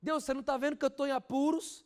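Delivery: loud, high, slow cry to God; man alone in his room crying out loudly to God; desperate cry. Retold or imitated. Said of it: "começou a gritar desesperadamente".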